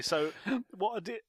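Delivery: choking on crisps, gasping. Real, not acted. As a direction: gasp through a crisp caught in the throat. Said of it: "choking on crisps".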